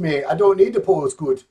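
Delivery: jokey attempt at a Jamaican accent. Co-host mimics a bodybuilder refusing to pose, mock Jamaican accent. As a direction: put on a rough Jamaican accent. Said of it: "he's not Jamaican".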